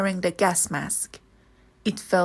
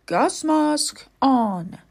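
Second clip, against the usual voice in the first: ordering; 4 semitones higher, slower than usual. Acted. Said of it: "he ordered".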